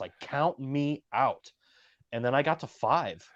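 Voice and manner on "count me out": put-on earnest, intent, high, dead-serious pleading. Retelling how a man in a title match spoke to him, imitating a serious plea. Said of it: "really talking to me, really serious".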